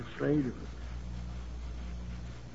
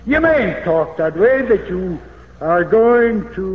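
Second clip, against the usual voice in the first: louder, scolding retelling of Peter's rebuke; mock rebuke; 3 semitones higher, 6 dB louder than usual. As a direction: scold him like a brash disciple, louder. Peter rebuking Jesus, retold.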